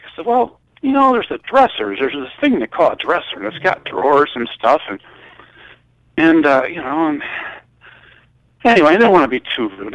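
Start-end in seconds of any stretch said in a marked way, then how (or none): 0.2-4.8 higher, mock-patient explanation of a dresser; more sarcastic. Answering Mike's push to see the bedroom, sarcastic and higher. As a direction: lay on the sarcasm like explaining to a child. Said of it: "I'm more sarcastic".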